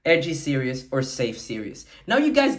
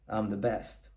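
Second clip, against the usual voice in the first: low, much softer, dead-serious boast; serious brag; 11 semitones lower, 10 dB quieter than usual. Shown as a demonstration. Coach demoing a serious brag to students, low and grave. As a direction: drop the voice right down and mean it. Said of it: "Or you can do it in a serious way".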